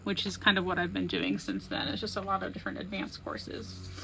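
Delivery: stuffy, sniffly nose; talking through a sniffle. Real, not acted. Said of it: "Sorry, I'm sniffly".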